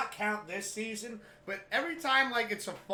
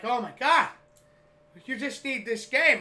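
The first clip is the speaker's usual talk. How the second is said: loud, higher-pitched excited quote; worked-up exclamation; 5 semitones higher, 9 dB louder than usual. Retold or imitated. Dad exclaims over the game, worked-up and loud. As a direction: imitate an excited sports fan.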